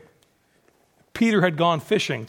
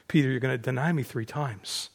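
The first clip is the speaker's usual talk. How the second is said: low, soft echo; grave recalled warning; 6 semitones lower, 8 dB quieter than usual. Acted. Peter remembers his master's words, grave and hushed. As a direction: say it quietly, pitched down.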